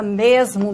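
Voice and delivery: mesmo with a voiced z; mesmo variant. Shown as a demonstration. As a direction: say mesmo with a z sound. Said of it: "Independe se ele fala". (mesmo com z)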